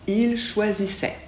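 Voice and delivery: "choisissait" finissant en è; ENT final muet. Shown as a demonstration. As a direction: dire "choisissait" au pluriel sans prononcer ENT. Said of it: "on ne le prononce jamais". (« choisissait » avec finale en è, ENT muet)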